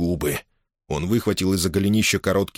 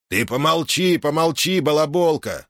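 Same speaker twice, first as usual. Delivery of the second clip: higher scolding rebuke; 7 semitones higher than usual. Acted. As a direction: snap at the chatterbox. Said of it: "напустился". (сердито, с напором)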